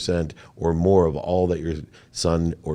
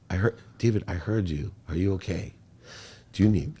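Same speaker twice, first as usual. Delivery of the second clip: tender mom; 5 dB quieter than usual. Retold or imitated. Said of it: "I'm about to cry".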